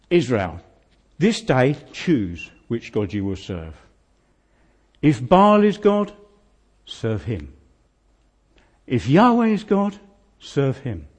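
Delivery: bold proclamation to the nation, rising on each if; a prophet calling out to all Israel; Elijah's challenge. Acted. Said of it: "Elijah struts forward and he says".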